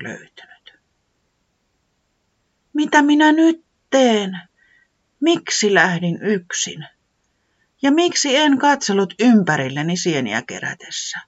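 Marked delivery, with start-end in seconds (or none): 2.7-11.2 a lost little creature berating itself, voice lifted high and worried; frightened, much higher self-scolding; scolding itself in fear. Acted. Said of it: "se soimasi itseään".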